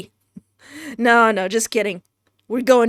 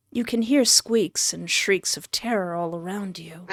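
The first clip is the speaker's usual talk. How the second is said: story narration. A narrator's reading. Narrator describing the player's dying vision, measured story narration. Reads the death scene aloud.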